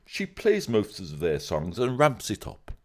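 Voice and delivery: slow, put-on posh accent. Co-host attempting a posh reading of a comment, mild posh accent. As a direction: take it slowly, lightly mock posh. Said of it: "I'll try it in a posh voice".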